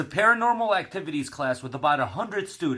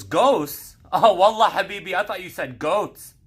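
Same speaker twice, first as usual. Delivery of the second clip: hammed-up Arab accent, louder on wallah; a kid with a put-on Arab accent, excited; 4 semitones higher, 4 dB louder than usual. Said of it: "an Arab kid in the back".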